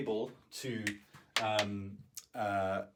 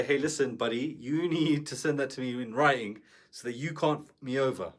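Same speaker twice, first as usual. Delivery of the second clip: mock-aggressive demand, a touch louder; pushy, confrontational; 4 dB louder than usual. Shown as a demonstration. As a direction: lean on the client like a threat. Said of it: "You don't wanna talk like that".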